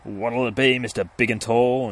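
hammed-up excited vendor. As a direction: play the vendor tickled by the big boy. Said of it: "the ice cream man's like".

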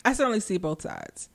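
talking while eating cheesecake; words round a bite of cheesecake; mouth full. Real, not acted. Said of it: "I'm eating my cheesecake".

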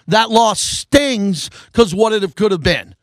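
That loss stings dragged out, rueful; sighing over what could have been. Real, not acted. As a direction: let the sting sink in slowly. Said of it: "but that loss stings".

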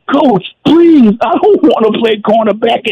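hammed-up sobbing plea to the coach; crybaby plea. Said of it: "I'm crying like I'm a baby".

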